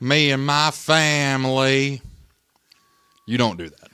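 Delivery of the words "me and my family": put-on fake Southern accent, higher. Imitating a coach at his opening press conference: imitating a fake Southern accent. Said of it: "try to fake an accent".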